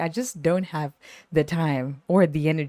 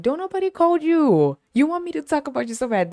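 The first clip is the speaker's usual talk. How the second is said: high, loud and fast put-down; sassy loud retort; 9 semitones higher, 4 dB louder than usual. Retold or imitated. Teasing a needy coworker, loud high sass. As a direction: snap back with sass. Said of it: "And I'm like".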